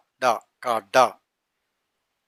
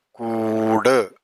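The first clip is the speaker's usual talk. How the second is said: slow repeat; 2 semitones lower, much slower than usual. Shown as a demonstration. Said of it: "slow repeat".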